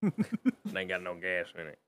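very low, slow, soft film-character growl; Sling Blade impression. Co-host echoing the film quote, low slow Sling Blade voice. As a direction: drop right down and drag it out. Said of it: "you were doing Sling Blade".

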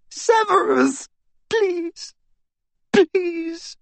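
high, desperate begging; plead, cowering and terrified; cowering plea. Acted. Captive begging Snape.

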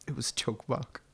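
small, soft retold protest; meek excuse. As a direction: imitate a sheepish prankster, volume down. Acting out prankster's weak excuse.

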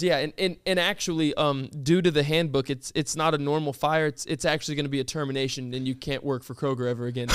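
low-key imitation of a manager; officious manager. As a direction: recite the handbook apologetically but firmly. Manager voiced citing the handbook.

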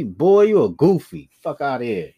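tough Chicago street voice. Retold or imitated. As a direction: say it like a Chicago guy. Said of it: "To my Chicago voice".

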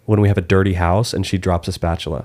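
normal talking voice

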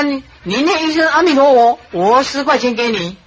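loud coaxing call to a beggar. Retold or imitated. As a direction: call out, coaxing him to chant. Monk calls out to beggar. (大声招呼乞丐念佛)

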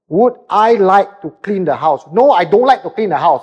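blunt male reply. Retold or imitated. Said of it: "But for the man is".

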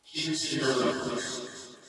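put-on high, slow parody of a Brooklyn accent; obnoxious Brooklyn accent. A narrator's reading. Creature mimicking a woman's obnoxious Brooklyn accent. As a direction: drag it out in a mocking, horrible Brooklyn accent. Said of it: "horrible parody of Diana's obnoxious Brooklyn accent".

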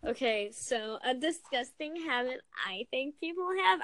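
put-on light Valley Girl lilt. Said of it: "I did Valley Girl voice for that".

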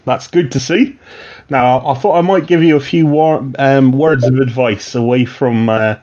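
a light West Country watchman; mild West Country watchman giving new recruits advice. Acted. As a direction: slip into a mild West Country burr as the old guard. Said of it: "I guess I'm gonna be from the West Country".

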